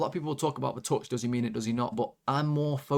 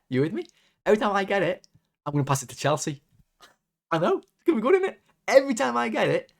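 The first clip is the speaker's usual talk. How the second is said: high-pitched, over-keen imitation of a player; hammed-up excitement, voice leaping up; mock eager player; 5 semitones higher, 3 dB louder, faster than usual. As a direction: sarcastically pitch a daft plan as brilliant. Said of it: "he decided".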